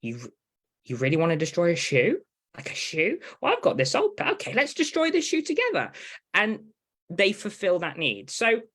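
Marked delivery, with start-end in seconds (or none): 0.0-5.9 mock caregiver voice. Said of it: "it's just the caregiver going".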